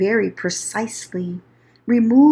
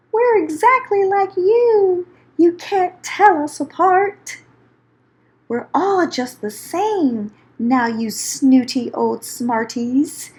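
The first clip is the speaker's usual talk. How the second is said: mock yell; 5 semitones higher than usual. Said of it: "Then they yelled".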